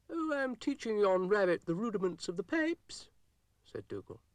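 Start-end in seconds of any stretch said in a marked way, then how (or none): 0.1-3.1 loud, high Scottish brogue; a proud Scottish piper's boast, loud; Scottish accent. A narrator's reading. Dougal tells Florence he teaches the rabbit bagpipes, high Scottish accent.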